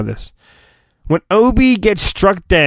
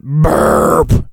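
fake burp. Shown as a demonstration. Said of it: "I can do that".

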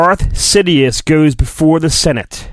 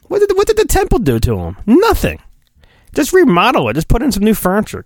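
incredulous; 6 semitones higher, faster than usual. Real, not acted. Indignant joke about the temple.

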